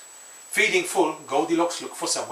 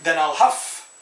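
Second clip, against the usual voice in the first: wolf threat; 3 semitones higher, 3 dB louder than usual. Acted. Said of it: "said the wolf".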